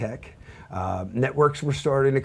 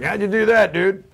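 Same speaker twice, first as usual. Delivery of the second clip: amazed friend; 9 semitones higher, 8 dB louder than usual. Retold or imitated. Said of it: "It's like".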